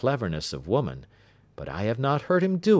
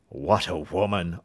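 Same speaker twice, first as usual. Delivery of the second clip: amazed cry. Acted. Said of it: "cried the King of Bohemia".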